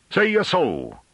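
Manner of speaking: very high rustic challenge; voice rising. A narrator's reading. Farmer challenging the scholar's refusal, voice rising. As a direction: raise the voice in indignant challenge. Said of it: "Rouffrant's voice rose".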